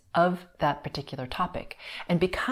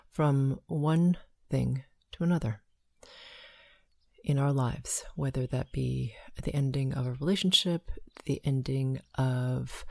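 guided meditation; 3 semitones lower than usual. Acted. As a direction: lead them gently into calm.

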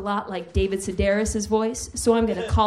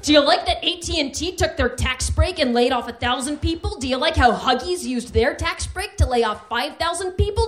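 imagined yelling; 4 semitones higher, 4 dB louder than usual. Retold or imitated. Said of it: "my informed yelling".

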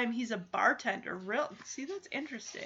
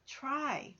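soft pleading; 10 dB quieter than usual. Acted. Pleading with unresponsive grandma.

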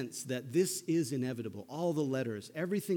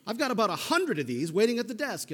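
lightly voiced hotel owner, higher; a hint of a fussy clerk, pitched up; 9 semitones higher, 5 dB louder than usual. Hotel owner to the Dursleys, a mildly higher voice.

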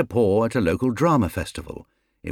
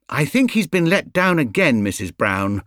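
a mildly earnest bear, higher; sincere little bear, pleading a case; 6 semitones higher than usual. Acted. Paddington explaining to Mrs Brown, lightly voiced and earnest. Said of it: "said Paddington earnestly".

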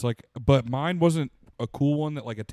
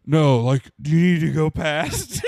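laughing retold quote; 5 semitones higher, 9 dB louder, slower than usual. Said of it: "And he goes".

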